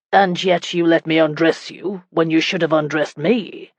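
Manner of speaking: lightly gruff husband's question. Acted. Husband questions wife about undressing, mildly gruff. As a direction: put a touch of gruffness in it. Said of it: "his voice gruff".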